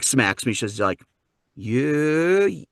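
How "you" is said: probing Scottish lady voice; Scottish mom. Retold or imitated. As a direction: accuse him knowingly with a Scottish accent. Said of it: "cute little Scottish lady".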